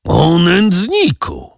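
high, slow cry of rage; shouting. A narrator's reading. General cries out at Monte Cristo, stung, shouting. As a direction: fling the insult at him. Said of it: "krzyknął generał".

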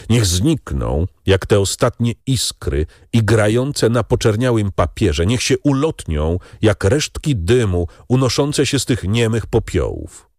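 solemn friend. Acted. Beauchamp watches the papers burn, solemn. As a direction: speak it like an incantation.

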